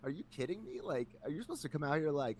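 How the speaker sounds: mildly indignant, rising in disbelief; retold incredulity. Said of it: "and I'm like".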